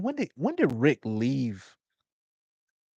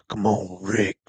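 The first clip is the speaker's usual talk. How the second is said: Daryl impression; 2 semitones lower, 4 dB quieter, slower than usual. Gamer imitating Daryl talking to Rick, light mumbled mimic. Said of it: "He talk like this".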